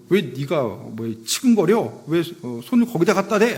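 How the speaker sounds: mock angry. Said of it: "열을 낸 거예요".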